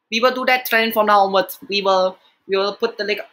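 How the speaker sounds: lightly put-on comic uncle, broken English; a hint of a comic uncle's accent; lightly voiced catchphrase character; Uncle Roger. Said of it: "what I like to call the Uncle Roger thing".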